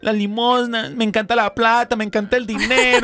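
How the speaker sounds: put-on high, sing-song Colombian paisa accent. Woman confesses stealing the collection, in a high paisa accent. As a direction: confess like a sweet Medellín churchwoman. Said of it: "muy bien el acento paisa".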